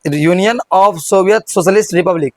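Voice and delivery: every word of "Union of Soviet Socialist Republic" said slowly and deliberately; slow corrected take. Shown as a demonstration. Teacher carefully saying the corrected name to students, slow. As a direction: say the full name slowly, getting it right. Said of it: "थोड़ा बोलने में नहीं बनता है".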